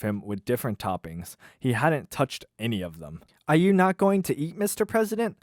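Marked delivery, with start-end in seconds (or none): 3.5-5.4 higher, polite curious question; a waitress gently checking on a guest; Delaney's voice. Acted. Waitress to the president, higher polite question. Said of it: "I'll do the voices".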